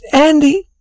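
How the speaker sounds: high-pitched, weepy call; tearful. A narrator's reading. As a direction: start a confession through acted tears. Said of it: "began to cry".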